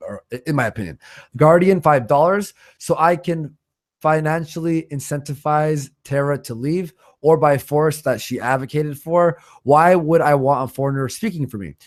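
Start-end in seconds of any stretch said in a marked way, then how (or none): none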